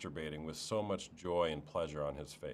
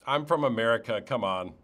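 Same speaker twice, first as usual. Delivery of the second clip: loud, higher-pitched joking outburst; exasperated protest; 5 semitones higher, 10 dB louder than usual. Real, not acted. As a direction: protest loudly, as if it's obvious. Mock protest at her guess.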